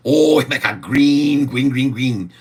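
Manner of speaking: excited. Pretend. Gleeful boast about making money.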